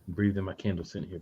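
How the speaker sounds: soft self-soothing voice; calming breath. Real, not acted. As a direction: talk yourself down quietly. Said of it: "I'm trying".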